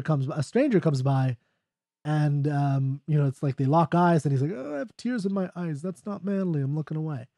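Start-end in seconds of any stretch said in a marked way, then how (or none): 4.5-7.3 embarrassed mock aside. Acting embarrassed man caught crying.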